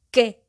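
loud, emphatic QUÉ on the accented E; stressed accented vowel. Shown as a demonstration. Teacher showing students the accent in Qué, stressed loudly. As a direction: punch the E in "Qué". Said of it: "lleva acento en la E".

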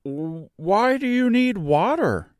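high, light voice for a straw man; Scarecrow voice. A narrator's reading. Scarecrow pointing out a cottage to Dorothy, high and light. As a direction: play the cheerful Scarecrow up high.

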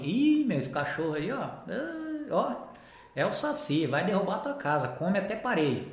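imitating alarmed owners, pitch leaping on the exclamations; lightly acted word of warning with high swoops; warning dog owners. Internet dog owners warning about the breed, mock alarm. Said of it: "muita gente fala assim".

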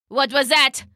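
put-on royal voice, sharp question; startled king. King whirls round at a quack, startled demand. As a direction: demand an answer as the rattled tyrant.

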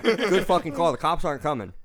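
high, loud jeer with a laugh in it; mock-angry shout, half laughing; retold yelling. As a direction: re-enact yelling after a departing driver. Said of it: "I was yelling at him".

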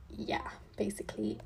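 an unvoiced aside; whispering an aside to viewers; whispered. Real, not acted.

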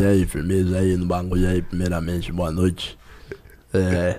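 low, laid-back rapper voice on the phone; prank call pretending to be a famous rapper. Pretend. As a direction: play a famous rapper calling a pizzeria. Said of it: "falando que é um rapper famoso".

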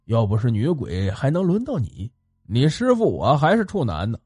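put-on an old Taoist master cutting in, low; 老师父低沉的嗓音; stern old master. A narrator's reading. Master's held story voice.

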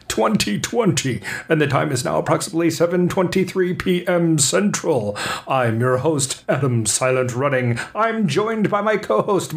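upbeat radio host announcing the show; podcast host intro. Acted.

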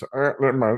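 mock false-start sneeze noises; imitated aborted sneeze. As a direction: mimic someone stalling oddly before a sneeze. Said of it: "the way he just".

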